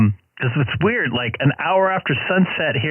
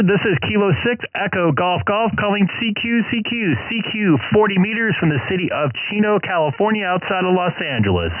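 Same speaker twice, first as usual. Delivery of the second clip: calling CQ over the radio; clear, steady operator call-out; ham radio call. Real, not acted. Calling CQ on the air.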